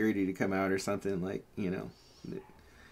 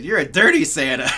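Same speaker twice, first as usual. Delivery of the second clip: put-on loud, laughing child's accusation; 5 semitones higher, 10 dB louder than usual. Girl accusing the man in the store, loud and laughing. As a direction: point and call it out, giggling. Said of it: "she goes".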